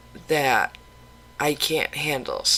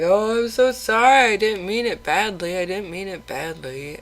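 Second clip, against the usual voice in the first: a higher, louder gush of sorry that fades; imitating apologetic husband; 5 semitones higher, 4 dB louder than usual. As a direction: play the husband rushing his apology. Husband apologizing after she cried.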